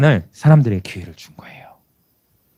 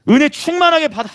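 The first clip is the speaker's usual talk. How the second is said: elated churchgoer; 12 semitones higher, 3 dB louder than usual. Acted. Voicing a blessed churchgoer.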